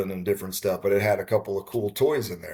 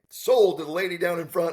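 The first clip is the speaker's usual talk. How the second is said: higher-pitched auctioneer's call, lightly imitated; retold auctioneer; 8 semitones higher than usual. Auctioneer closing a bid to the winning lady, imitated call. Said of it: "And the guy's like".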